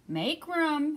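high, loud crow; crowing rooster. Acted. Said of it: "he crowed".

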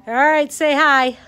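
rally the whole class to wave; loud call to the class to say hi. Real, not acted. Calling to the class across room.

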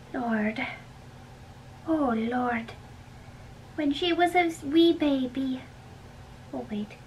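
fond murmur. Acted. Nurse's fond reminiscing.

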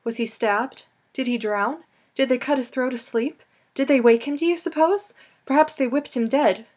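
frantic rapid questions. A narrator's reading. Buttercup hearing of Wesley's death, building panicked rush. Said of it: "Buttercup was talking very fast".

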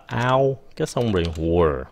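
"ao" first, then "were"; OUR in two parts. Shown as a demonstration. Teacher breaks down OUR for learners, said as ao, then were. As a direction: split OUR into "ao" plus "were". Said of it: "cái chữ này phát âm á".

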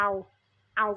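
"our" as one quick syllable; said quickly. Shown as a demonstration. Teacher shares a reading tip, quick "our". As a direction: run "our" together into a single short glide. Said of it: "อันนี้อ่าน our นะคะ แต่พูดไวๆ".

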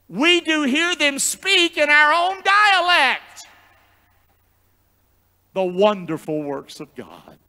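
high, loud, slow amazed cry; booming amazed proclamation; amazed crowd. Acted. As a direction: read it as the astonished crowd. Reading the crowd's amazed words.

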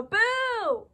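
a high, loud boo. Retold or imitated. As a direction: boo the villain like the whole fandom. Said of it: "we go".

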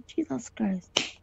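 soft, slow, drawn-out dismay; hushed disbelief. Retold or imitated. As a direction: breathe it out, stunned. Reacting to Viagra discovery.

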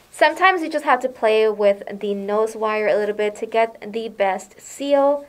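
muffled behind respirator; speaking while adjusting mask; through a face mask. Real, not acted. Seen 0: Fitted respirator covers mouth and nose throughout; hands adjust it.

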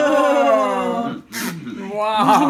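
disgusted surprise. Real, not acted. Reacts to moldy cheese taste.

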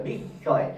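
বিস্ময় said as bish-shoy; বিস্ময় with no m, only the lengthened sh; doubled sibilant. Shown as a demonstration. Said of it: "দন্তাক্ষরের উচ্চারণটা দ্বিগুণ হবে".

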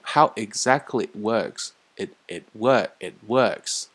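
it in How exactly it works reduced and unstressed; teacher demo with weak it. Shown as a demonstration. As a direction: swallow the it, keep exactly strong. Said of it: "所以这些it一定要弱读".

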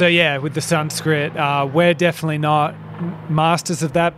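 yelling over helicopter. Real, not acted. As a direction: push the voice over engine noise. Talking over a passing helicopter.

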